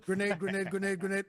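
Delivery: loud repeated callout; grenade warning yell. Retold or imitated. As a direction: fire off each word like a throw. Retold spamming grenades.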